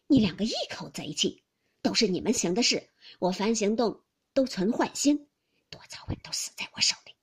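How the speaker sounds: loud grumbling accusation; aggrieved husband making empty threats; blustering Jia Lian. Acted. Husband accusing both women of ganging up, blustering.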